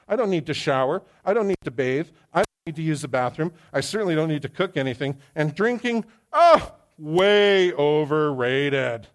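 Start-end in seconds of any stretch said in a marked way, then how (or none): 0.1-5.2 mock nonchalant voice. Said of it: "Nobody here is gonna say". 6.3-9.1 slow, loud sarcastic drawl; mock dismissive drawl. Sarcastic aside about drinking.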